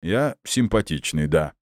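slow tipsy words with a hiccup; hiccuping drunk. Acted. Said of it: "икнул Андрей".

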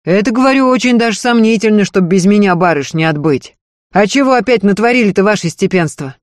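earnest servant woman begging, high and loud; Marfa's pleading voice. Acted. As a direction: beg her mistress not to leave, pressing hard. Marfa quotes her own answer.

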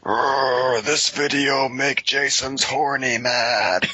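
slow, growled caveman complaint; hammed-up monster frustration; mock brute Jason. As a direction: groan into it, then drag out every word. Voices Jason as angry brute.

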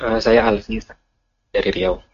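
choppy call, words cutting out; distant broken-up phone voice; breaking up space radio. Real, not acted. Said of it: "suaranya terputus".

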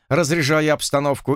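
ordinary delivery, nothing marked

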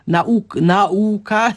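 stumbling attempt at misstressed "nauka", NA-u-ka; awkward wrong stress. Shown as a demonstration. Expert struggles to mimic an error, "nauka" stressed on NA. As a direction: put the weight on NA in "nauka", haltingly. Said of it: "nawet trudno mi to wymówić".

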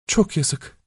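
soft, sighing pity; sighing regret. Acted. Wife sighs at her husband's cruelty, soft and sorrowful. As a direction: breathe the words out on a sigh. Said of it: "diyerek içini çekmiş kadın".

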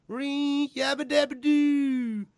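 high, slow cartoon caveman cry; Fred Flintstone yell. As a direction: belt it out like the cartoon intro. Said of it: "they do the live action introduction scene".

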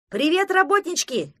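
high, loud mocking call; a cocky forest dweller shouts teasingly at the friends; shouted greeting. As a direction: holler it across the clearing. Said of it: "крикнул он".

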